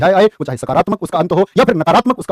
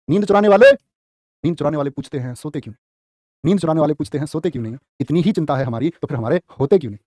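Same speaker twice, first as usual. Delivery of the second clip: soft, low shayari recitation; teacher softly reciting a love couplet; recited couplet; 4 semitones lower, 3 dB quieter than usual. Acted. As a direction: recite the couplet gently, lowering the voice.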